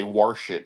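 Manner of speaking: wash said as "warsh"; Pittsburgh pronunciation. Shown as a demonstration. Showing how Pittsburgh locals say it, "warsh" for wash. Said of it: "in this area they say".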